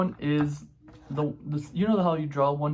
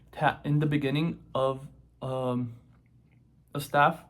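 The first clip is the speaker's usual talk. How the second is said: chewing gum. Real, not acted. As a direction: mouth full of gum. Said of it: "So I have gum in my mouth".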